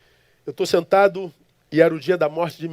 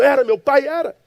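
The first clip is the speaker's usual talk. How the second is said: loud, high-pitched contradiction; heated insistence; 8 semitones higher, 6 dB louder than usual. Retold or imitated. Son defends his late father's goodness to the stranger, heated. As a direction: insist over him, high and forceful.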